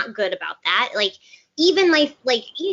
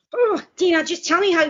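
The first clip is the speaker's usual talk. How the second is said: mock pleading; 10 semitones higher than usual. Retold pleading with friend Dana.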